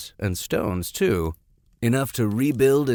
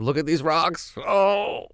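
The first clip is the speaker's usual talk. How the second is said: eager and high, then a small sad whimper; hammed-up oddball pleading; mock socially awkward rock nerd; 5 semitones higher than usual. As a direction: play the lonely weirdo showing off rocks. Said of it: "He's just gonna walk up to him".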